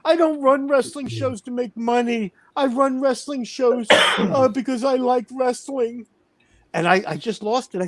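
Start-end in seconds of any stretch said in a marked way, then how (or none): 0.0-6.1 high, whiny mock sob of a grown man on the phone; mock crying whine. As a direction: imitate him blubbering, pitched way up. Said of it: "this is all he's, what he's telling me".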